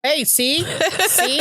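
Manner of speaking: high, eager "see, see"; pleased, pointing it out; excited. Real, not acted.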